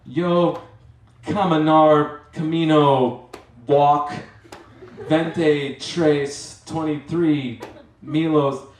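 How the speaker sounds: over-explaining in bad Spanish, loudly; loud broken Spanish. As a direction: tourist shouting broken Spanish at gas station clerk. Broken Spanish shouted to clerk.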